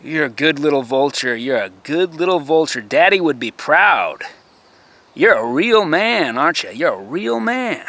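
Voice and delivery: drip contempt through the compliment; sarcastic praise. Real, not acted.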